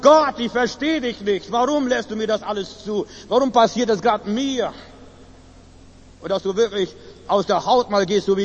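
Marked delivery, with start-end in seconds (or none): 0.0-4.7 cry of protest. Acted. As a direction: cry out your complaint to God. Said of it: "einen Schrei tust". (verzweifelter Aufschrei)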